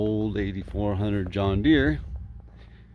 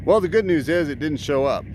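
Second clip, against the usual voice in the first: mock-upbeat, pitched higher; sarcastic; 5 semitones higher, 3 dB louder than usual. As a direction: deliver bad news as if it were good. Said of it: "I'm being sarcastic".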